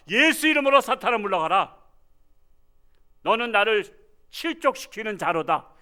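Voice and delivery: loud, high call in Jesus's name; commanding rebuke. Shown as a demonstration. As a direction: drive Satan away with authority. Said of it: "이렇게 말해야 되니까".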